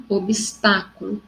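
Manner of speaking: obstáculo drawn out, stress on TÁ; slow teacher's demo of obstáculo, TÁ stressed; stressed third-last syllable. Shown as a demonstration. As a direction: say obstáculo slowly, leaning on "tá". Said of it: "toda proparoxítona é acentuada".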